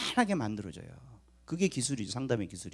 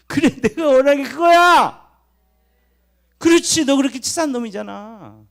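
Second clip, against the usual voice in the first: God's loud, high, delighted reply; delighted shout; 8 semitones higher, 7 dB louder than usual. Acted. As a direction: cry out as God, thrilled at finally being understood. 하나님이 반기며 답하는 연기. (반가워서 높게 외치는 하나님 목소리)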